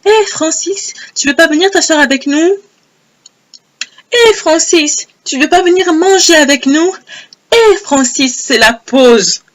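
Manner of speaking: appel aigu et chantant pour attirer Francis; l'inviter gentiment, voix haute et engageante; appel amical. Retold or imitated. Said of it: "on lui disait". (appeler Francis d'une voix haute et enjôleuse)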